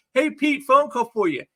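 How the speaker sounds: high-pitched mock holler across a party; mock shout. Flash telling Pete about a phone call, mock shouting. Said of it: "You don't have to shout".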